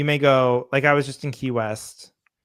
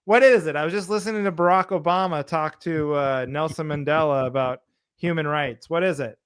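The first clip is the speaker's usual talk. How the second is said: mock annoyed; 3 semitones higher, 3 dB louder than usual. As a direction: snap at the interruption, put-upon. Acted annoyed podcast listener.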